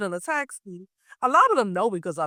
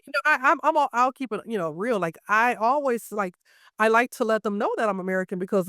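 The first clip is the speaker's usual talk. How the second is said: ordinary delivery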